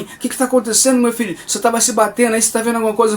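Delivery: lightly voiced, anxious maternal questions; worried mother. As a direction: act out a mother questioning her son. Worried mother questions her son.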